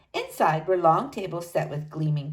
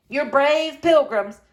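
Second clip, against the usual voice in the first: Scots brogue; 6 semitones higher, 5 dB louder than usual. A narrator's reading. Scots storekeeper greets Mama.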